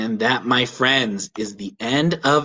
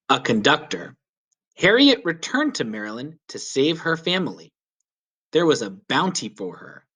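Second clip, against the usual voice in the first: put-on gentle, clear read-aloud narration for kids; children's story reading. A narrator's reading. Storyteller reading a history book to children, gentle narration. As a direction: read it like a picture book to young listeners.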